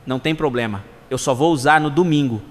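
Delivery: lightly unbothered, low-pitched answer; calm reply. Acted. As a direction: say it low and easy, perfectly untroubled.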